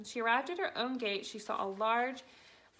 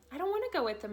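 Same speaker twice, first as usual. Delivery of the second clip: sudden shout; 7 semitones higher, faster than usual. A narrator's reading. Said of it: "Matilda shouted suddenly".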